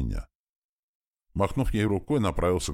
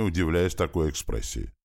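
usual speaking voice

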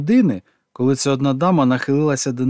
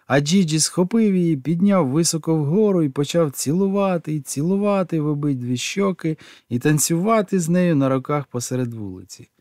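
ordinary delivery, nothing marked

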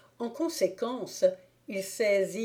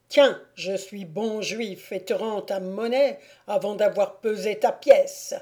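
taunting stranger. Acted. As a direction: taunt him. Stranger after punching Thibault.

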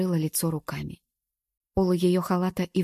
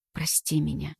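tearful; 2 semitones lower, 4 dB quieter than usual. A narrator's reading. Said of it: "слёзы непрошенно потекли по щекам".

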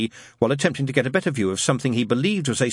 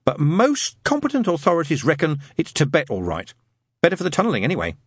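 put-on higher-pitched boy expert, assured; Adam, lofty schoolboy; 6 semitones higher than usual. Schoolboy weighs up Tibet for his friends, loftily. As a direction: hold forth like a young authority.

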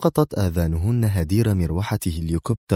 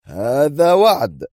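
slow, drawn-out, higher-pitched threat; menacing vow; 7 semitones higher, 4 dB louder, much slower than usual. A narrator's reading. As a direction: stretch the words out ominously. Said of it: "انعقد حاجباه على نحو مخيف وهو يضيف". (وعيد مخيف ببطء)

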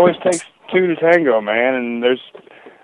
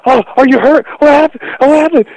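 alarmed concern; 13 semitones higher, 4 dB louder than usual. Retold or imitated. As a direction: voice jumps high and loud in worried panic. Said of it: "I was like".

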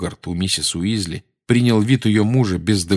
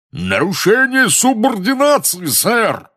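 high, loud indignant roar; 13 semitones higher, 5 dB louder, slower than usual. A narrator's reading. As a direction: bellow at him in outrage. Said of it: "взревел". (возмущённый рёв)

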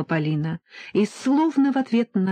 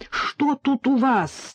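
out of breath; 7 semitones higher, slower than usual. A narrator's reading. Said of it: "тяжело дыша спросила Иза".

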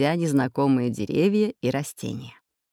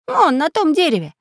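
put-on much higher child voice; boy pointing; 12 semitones higher, 4 dB louder than usual. Boy points to the tree, bright child voice. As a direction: call out the spot eagerly. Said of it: "показал мальчик разбойникам".

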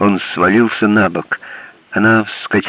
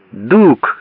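mild cry; 4 semitones higher than usual. Acted. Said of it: "закричала она".

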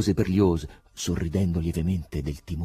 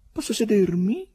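courteous; 5 dB louder than usual. A narrator's reading. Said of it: "chiese con urbanità".

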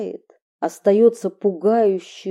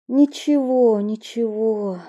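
soothing through tears; tearful. Acted. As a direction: voice thick with tears. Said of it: "влажным, набухшим от слёз голосом".

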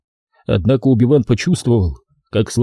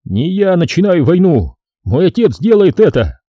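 irritated protest, a touch higher; 7 semitones higher than usual. Acted. Prince snapping back at the Jedi, irritated. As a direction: push the blame away, annoyed. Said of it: "раздражённо".

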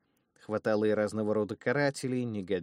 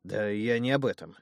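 annoyed; 3 dB louder than usual. Acted. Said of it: "досадливо махнул рукой брюнет".

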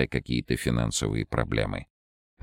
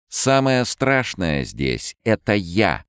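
slow, higher, louder bravado; loud defiant; 7 semitones higher, 4 dB louder, slower than usual. A narrator's reading. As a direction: shout it to the darkness defiantly. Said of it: "громко произнесла Ольга". (громко и с вызовом)

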